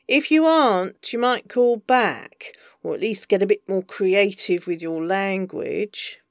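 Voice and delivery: a stern, exasperated agent voice; sharp scolding agent. Acted. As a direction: scold him down the phone. Bees scolding on phone.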